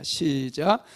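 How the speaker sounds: normal talking voice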